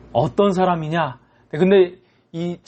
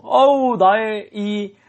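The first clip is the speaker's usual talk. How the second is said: acted gush of amazed gratitude, raised at the start; overjoyed relief; 3 semitones higher, much slower than usual. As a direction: play a debtor overwhelmed with joy. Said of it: "너무 기뻐하는 거예요".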